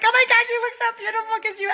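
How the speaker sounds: high, rushed tearful gushing; hammed-up weepy squeal; mock crying. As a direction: gush as if crying along. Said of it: "crying with them".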